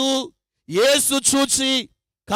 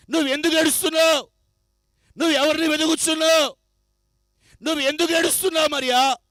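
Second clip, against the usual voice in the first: urgent questioning; 2 semitones higher, faster than usual. Acted. Preacher voices Jesus questioning.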